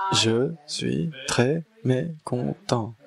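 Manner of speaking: a hungry one in the box, syllable by syllable; slow grumbling voice from the box. Acted. Person hidden in the box answers, slowly and sulkily.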